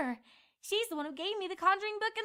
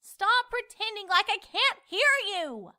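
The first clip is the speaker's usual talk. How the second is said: sharp, louder scorn; scornful; 3 semitones higher, 6 dB louder than usual. Acted. Twilight scolding the narrator, sharp and louder. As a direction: snap back in contempt. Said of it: "she scorned".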